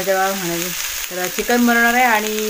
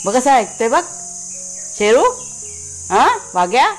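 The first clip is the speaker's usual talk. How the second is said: higher pet-talk voice; cooing at dogs; 5 semitones higher than usual. Real, not acted. Woman coos at her dogs Sheru and Waghya, higher voice. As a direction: coo at the dogs to make them listen.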